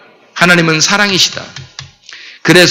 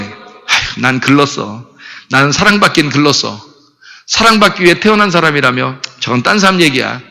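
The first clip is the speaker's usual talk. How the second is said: softer, lower mock despair with a sigh; 4 semitones lower, 3 dB quieter than usual. Believer who failed, telling himself he is hopeless, softly. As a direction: sigh and give up on yourself. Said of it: "이렇게 할 거 아니에요".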